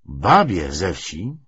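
plain reading voice

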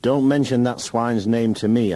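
loud, high, furious order; husband snapping loudly at wife, furious. A narrator's reading. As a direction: spit out the swine's name angrily. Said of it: "I said furiously".

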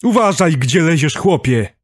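high, loud angry-driver telling-off; shouted scolding. A narrator's reading. Driver lecturing the dazed doctor, shouted scolding. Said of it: "pouczał zdezorientowanego doktora".

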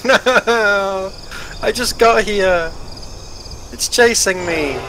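high panicked cries; yelping in mock panic, slow; being chased. Real, not acted.

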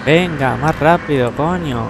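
real impatient outburst, hurrying it along; impatient urging. Real, not acted.

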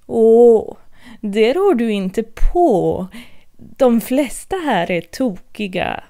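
lightly voiced cat, amused; sly Cheshire cat. Cat telling Alice everyone's mad, slow and teasing.

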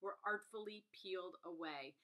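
measured read-aloud of a glowing review. Acted. Reviewer reads praise of a story of sisters, measured read-out. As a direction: read it out with deliberate phrasing.

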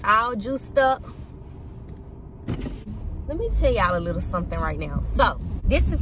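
talking while chewing; speaking with food at lips; mouth full of food. Real, not acted. Seen 0: No cup seen; she holds a small yellow snack at her lips.

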